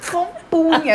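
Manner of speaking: high, loud mocking repeat; mocking echo. Real, not acted. Mocking her formal word. (repetindo em deboche, mais alto)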